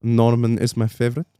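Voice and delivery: lightly imitated French accent; low-key French kennel man. Kennel man talking about a dog, light French accent. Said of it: "I think he's French".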